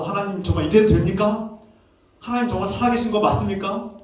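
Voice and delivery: imitated reproach, mildly heated; angry at God. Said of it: "하나님께 막 화가 나는 거예요". (하나님을 원망하듯 따지는 흉내)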